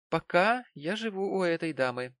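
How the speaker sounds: heavy pointed stress on «пока». A narrator's reading. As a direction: lean hard on «пока». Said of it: "Сильное ударение на слове «пока»".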